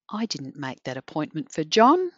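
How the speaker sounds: John lifted with a rising tune at the end; John stressed with a questioning rise. Shown as a demonstration. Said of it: "If I say that a couple of different ways".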